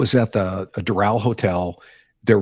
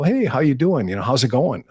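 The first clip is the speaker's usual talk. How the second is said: buddy greeting; 4 semitones higher than usual. Retold or imitated. Reporter greeting the president, cheerful and high. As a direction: greet him like an old pal. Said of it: "I go".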